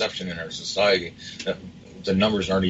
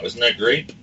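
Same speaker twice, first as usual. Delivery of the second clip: sarcastic mock approval, pitched higher; 4 semitones higher, slower than usual. Real, not acted. Radio host mocking a politician's finance appointment, sarcastic. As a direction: feign delight with a higher-pitched sarcastic question. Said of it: "I'm being sarcastic".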